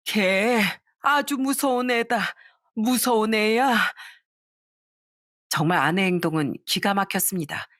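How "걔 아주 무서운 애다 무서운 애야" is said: put-on slow, higher, heavy old mother's warning; slow grim warning. Mother warning her son about his wife, slow and grim. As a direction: draw it out like a shaken mother.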